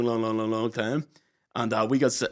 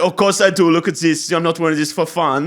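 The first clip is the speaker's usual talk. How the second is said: louder, higher retelling of a curt barman; irritated barman; 4 semitones higher, 6 dB louder than usual. Retold or imitated. Barman scolds the lads over his work top, mock irritated. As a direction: imitate the annoyed barman snapping back.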